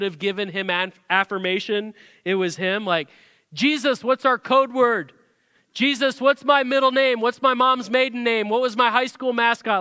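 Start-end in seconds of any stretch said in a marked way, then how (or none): 3.5-9.8 mock Peter quizzing Jesus. Pastor voices Peter's test questions.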